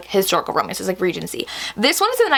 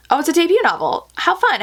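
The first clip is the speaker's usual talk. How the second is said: bright, higher, quick oh of discovery; light up at the news; pleased surprise; 7 semitones higher than usual. Real, not acted. Booktuber realizing it's a debut novel, pleasantly surprised.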